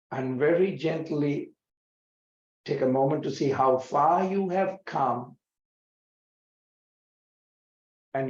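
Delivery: unhurried guiding voice with long pauses between phrases; guided meditation. Acted. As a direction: leave space after each phrase, like leading a meditation. Leads a guided reflection.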